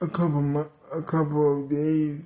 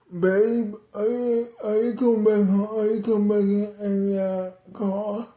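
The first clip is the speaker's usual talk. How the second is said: higher, quicker voice for the aunt; aunt calling out; 6 semitones higher than usual. Acted. Aunt asks dad if he's coming back to the car, high-pitched calling. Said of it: "my aunt said or asked my dad".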